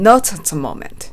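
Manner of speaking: "Not at" linked like "no-tsat", slowly; slow model phrase, hard T joining "Not at"; linked, strong T. Shown as a demonstration. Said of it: "not atと発音しましょ". (「Not at」のTを強くつなげて、ゆっくり)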